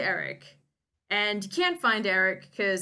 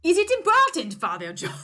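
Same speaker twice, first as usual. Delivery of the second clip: put-on higher, louder whining boy; a reluctant pupil begging off; young Pierre groaning at his tutor; whiny boy; 8 semitones higher, 8 dB louder than usual.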